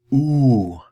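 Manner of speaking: oo loud and rounded, the wrong vowel for salut; the oo of bonjour. Shown as a demonstration. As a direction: show the contrasting oo. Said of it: "It's not the".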